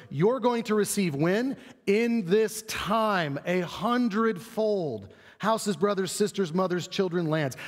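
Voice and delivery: slow down and savor each promise; emphatic Jesus quote. Retold or imitated. Preacher voicing Jesus's surprising promise, slow and emphatic. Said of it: "Instead, he goes".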